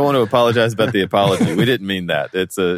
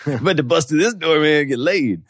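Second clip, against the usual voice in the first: hyped-up boast; 6 semitones higher than usual. Acted. Joking acted line as Vader.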